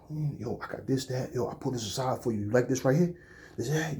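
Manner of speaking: eager store clerk. Retold or imitated. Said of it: "he'd be".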